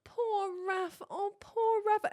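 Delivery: put-on high, slow pitying sigh of a small boy; pitying little boy. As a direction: coo sadly for his sister. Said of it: "he's like".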